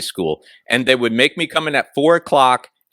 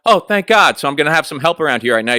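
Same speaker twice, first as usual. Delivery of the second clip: relieved. Retold or imitated. Young clerk to his manager, mock relieved gush. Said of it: "And I'm just, like, going".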